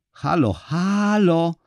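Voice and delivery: high, drawn-out squeaky hello; tiny mouse-squeak calling. A narrator's reading. Forgotten mother-in-law calling down the phone, squeaky. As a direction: call out like a tiny voice from a receiver. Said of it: "ciche jak mysi pisk, nawoływanie".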